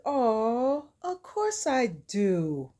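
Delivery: slow, drawn-out fond reply; slightly put-on doting voice; lightly voiced sweet talker. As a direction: reassure with a mock-tender drawl. Dennis sweetly answers Angela.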